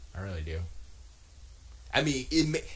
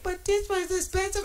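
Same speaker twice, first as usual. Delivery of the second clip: very high squeaky mock girlfriend voice; imitating girlfriend; 4 dB louder than usual. Girlfriend protesting the price, in a squeaky imitating voice. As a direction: whine it like a meek protest. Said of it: "And she was like".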